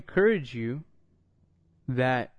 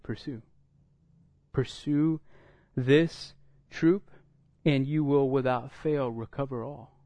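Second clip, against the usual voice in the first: gentle God. Pretend. God gently restoring David.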